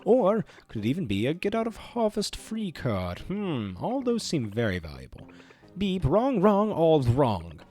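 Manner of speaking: showy, gloating evil host voice; theatrical villain announcing a prize; game show villain. Acted. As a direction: ham up the mastermind's big reveal. Reads the game villain's lines.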